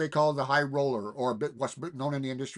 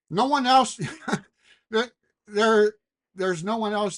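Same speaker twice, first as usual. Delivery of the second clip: emphatic outburst; 8 semitones higher, 6 dB louder than usual. Real, not acted. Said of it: "emphatic outburst".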